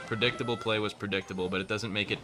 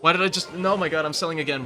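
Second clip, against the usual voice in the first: exasperated outcry; 6 semitones higher, 5 dB louder than usual. Real, not acted. Misplays, self-frustration.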